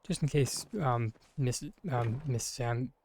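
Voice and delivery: slow, stumbling with lozenge in mouth; fumbling words around a lozenge in mouth. Real, not acted. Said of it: "I have a lozenge in my mouth".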